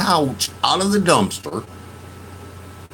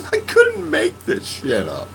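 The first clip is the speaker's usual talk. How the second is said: laughing disbelief; 11 semitones higher than usual. Real, not acted.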